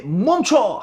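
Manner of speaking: lightly dramatized order to stop; mock shouted command. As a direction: act out a moderate shout to stop. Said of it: "하고 외쳤던 사람들".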